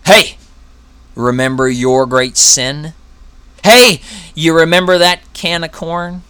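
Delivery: loud needling taunt; taunting accuser. Acted. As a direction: jab at the believer's memory. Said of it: "He brings it to us".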